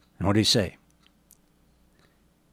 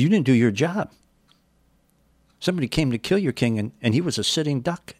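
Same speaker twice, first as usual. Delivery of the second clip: castigating rebuke; 5 semitones higher than usual. Retold or imitated. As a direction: tear into him for failing his job. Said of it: "David is castigating Abner".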